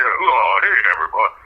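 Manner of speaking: lightly voiced Rodney Dangerfield, rising at the end; a hint of the old comic greeting the crowd; mild Rodney-style club greeting; Rodney Dangerfield impression. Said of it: "but he'd be like".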